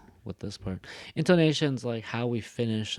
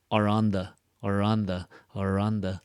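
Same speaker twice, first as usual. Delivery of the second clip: "are on the" blurred quick and weak like "Aranda"; reduced function words; 3 dB louder than usual. Shown as a demonstration. Teacher showing reduced "are on the", quick and weak. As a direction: slur "are on the" into one light word. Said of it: "It doesn't even sound like".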